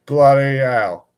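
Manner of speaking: slow, drawn-out British curse; British accent. Acted. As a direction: take your time with a mock British accent. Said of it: "He's just speaking in an accent".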